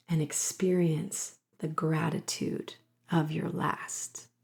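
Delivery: slow, hushed, tender meditative read. Acted. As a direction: breathe the words out like a lullaby of comfort. Reads soft channeled mother message.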